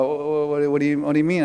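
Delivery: ordinary delivery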